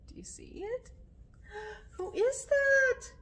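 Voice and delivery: hushed, unvoiced question; suspenseful whisper. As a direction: whisper it as if something is out there. Suspense aside to listening children.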